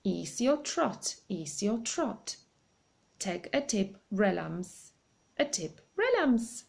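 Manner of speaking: slow chanted backwards magic words; backwards spell. Acted. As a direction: intone the reversed spell slowly, like an incantation. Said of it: "it's going to be backwards".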